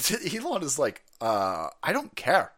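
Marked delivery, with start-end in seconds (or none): 1.2-2.5 slow, low mock shrug; imitated couldn't-care-less reply; indifferent. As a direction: play it slow and unbothered. Imitating Elon's indifferent answer.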